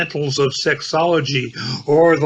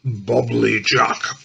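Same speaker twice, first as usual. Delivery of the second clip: turkey gobble; 4 semitones lower, slower than usual. Acted. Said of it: "He gobbles gluttonously with turkey wattles".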